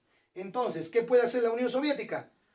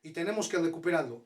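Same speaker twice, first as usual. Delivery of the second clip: quoting Hitler; 4 semitones lower, faster than usual. Retold or imitated. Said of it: "Hitler decía".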